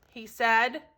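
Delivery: usual speaking voice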